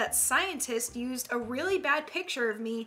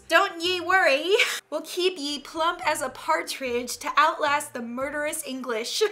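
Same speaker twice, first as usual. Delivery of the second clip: put-on vague old-country peasant accent, reassuring; unplaceable peasant accent. European peasant DNA reassuring a lass, in a vague accent. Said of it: "I don't know what accent this is".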